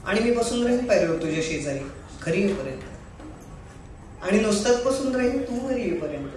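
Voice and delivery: lightly plaintive stage monologue; tearful monologue. Acted. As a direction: perform a heartfelt plea to a beloved, only a touch weepy. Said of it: "थोडा रडका आहे". (किंचित रडवेल्या सुरातील नाट्यमय स्वगत)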